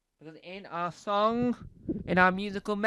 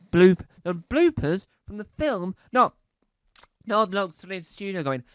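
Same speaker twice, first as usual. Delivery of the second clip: ordinary talk, nothing marked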